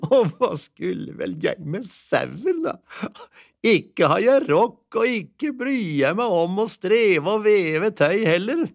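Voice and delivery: slow, chuckling dismissal; wife rejecting the sheep; laughing wife. A narrator's reading.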